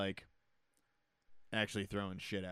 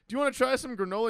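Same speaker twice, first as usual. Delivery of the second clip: high, quick, loud sales offer; mock supermarket sample pitch; sample clerk imitation; 13 semitones higher, 8 dB louder, faster than usual. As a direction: pitch it like an eager store demonstrator. Voices sample worker in movie scene.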